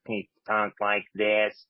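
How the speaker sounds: slow, froggy throat-cancer croak; slow it down and croak like a sick man's throat; a lightly done froggy rasp, drawn out slowly; froggy Ned voice. Retold or imitated. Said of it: "He sounded like, uh, Ned from South Park".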